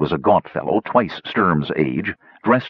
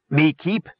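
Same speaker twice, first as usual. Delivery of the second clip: goblin protest; 7 semitones higher than usual. A narrator's reading. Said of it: "protested Warty".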